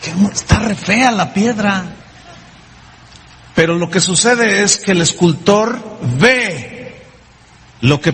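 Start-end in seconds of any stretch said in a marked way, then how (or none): 0.0-1.8 dismissive seller. Acted. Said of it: "el que está vendiendo la piedra dice".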